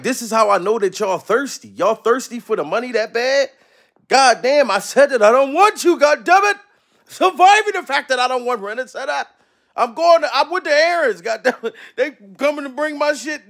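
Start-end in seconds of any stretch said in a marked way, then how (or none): 4.1-9.2 irritated outburst at the debt collectors; exasperated rant. Real, not acted. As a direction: vent at the callers. Ranting at Rent-A-Center.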